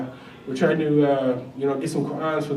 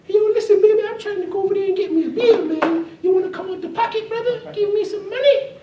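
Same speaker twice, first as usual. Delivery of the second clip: smooth flashy pimp swagger; 14 semitones higher than usual. Retold or imitated. Cousin the pimp voiced again.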